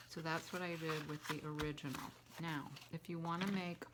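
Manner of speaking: talking around a mint; sucking a mint while talking; mouth full. Real, not acted. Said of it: "sorry, I have a mint in my mouth".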